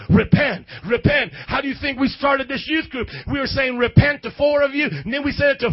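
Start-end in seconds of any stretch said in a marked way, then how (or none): 0.1-1.3 loud call to repent. Acted. Preacher calling out repent. 3.8-4.2 loud, rising call of repent; shouted repent. Acted.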